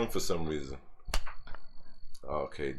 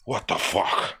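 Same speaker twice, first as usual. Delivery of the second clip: incredulous; 5 dB louder, slower than usual. Real, not acted. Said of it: "I like the way you say that".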